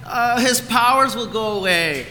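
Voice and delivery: high-pitched mock-upset child; imitated bawling son. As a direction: act out a little boy wailing about the rules. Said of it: "He's bawling his eyes out".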